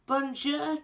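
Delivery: crying out. Acted. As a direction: call it out to be heard, without shouting. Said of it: "cried the parrot".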